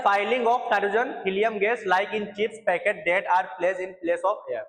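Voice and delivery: very slow, word by word, for note taking; slow dictation. Shown as a demonstration. Teacher to students copying notes, slow dictation. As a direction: spell it out slowly so they can write.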